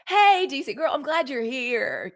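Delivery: bright happy hello; excited greeting. Real, not acted. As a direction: call out to the viewer with delight. Greeting a viewer twice.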